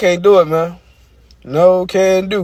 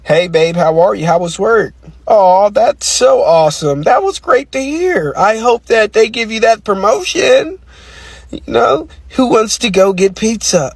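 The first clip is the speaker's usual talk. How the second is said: code-switch voice. Retold or imitated. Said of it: "live my life in a code switch".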